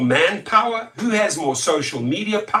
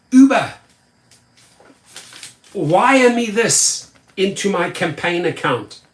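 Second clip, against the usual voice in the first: mock call-out. Mock politician calling out.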